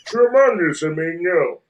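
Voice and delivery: lightly voiced tiny cartoon villain; scheming cartoon villain voice; Plankton. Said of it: "And there's Plankton's".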